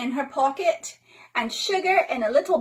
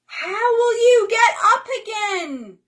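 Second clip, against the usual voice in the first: worried question; 9 semitones higher, 6 dB louder than usual. Acted. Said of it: "Oh, she's gonna call".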